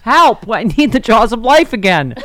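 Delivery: panicked plea. Retold or imitated. Retold panicked phone call.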